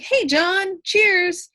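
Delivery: high-pitched, breezy casual greeting; casual, informal. Shown as a demonstration. Teacher giving an example of a casual email greeting, informal. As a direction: toss it out like a note to a friend. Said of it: "casual might be something more like".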